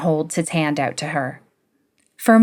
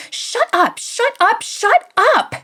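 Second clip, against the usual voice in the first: shouting. A narrator's reading. Stephanie shouts at Greg while swinging her pillow. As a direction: scream shut up at him.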